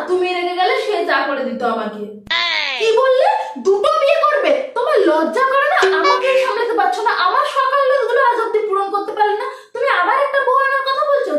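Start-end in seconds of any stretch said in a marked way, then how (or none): 2.8-11.3 sharp, indignant, higher scolding; angry outburst. Acted. Wife scolding husband for wanting a second wife, sharp and indignant. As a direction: snap back at him in outrage. Wife furious at remarriage talk.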